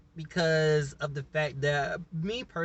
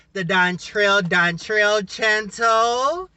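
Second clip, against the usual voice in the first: announcer voice; 4 semitones higher, 6 dB louder, slower than usual. Acted. Announcing the channel name.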